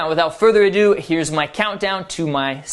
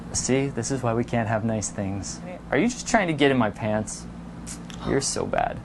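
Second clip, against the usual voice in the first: playful tease; 7 semitones lower, 8 dB quieter than usual. Shown as a demonstration. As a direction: lower and softer, teasing and coy. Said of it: "here's a few other examples".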